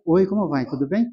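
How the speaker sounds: a hint of the old spirit's soft murmur; other intonation. Medium demonstrating to the congregation how the preto velho speaks, quiet and soft. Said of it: "Conversa com uma outra entonação".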